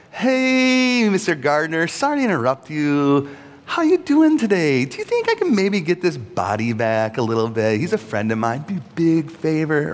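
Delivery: high, sweet, overly courteous request; mock-polite, asking nicely for the body; overly polite Mary. Mary politely asking the gardener, in a sugary voice. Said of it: "It's not like".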